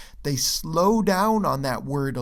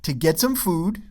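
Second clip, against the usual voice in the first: quick "to get some", beat on "food"; emphasized FOOD; 2 semitones higher than usual. Shown as a demonstration. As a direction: speed up into a stressed "food". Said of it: "food is emphasized".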